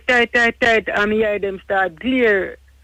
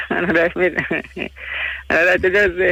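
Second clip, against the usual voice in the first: laughing. Real, not acted. Laughs when challenged on his words.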